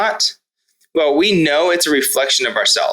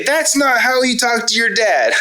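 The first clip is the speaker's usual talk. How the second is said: pitched way up, a hammed-up scolding shout; mock angry yell; 10 semitones higher than usual. Dad pretends to scream back at his yelling son, mock angry. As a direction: play the mad dad snapping back, half joking. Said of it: "scream back and say".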